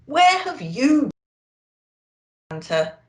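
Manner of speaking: lightly voiced youngster; young reindeer. A narrator's reading. Youngest reindeer asking Santa, lightly voiced.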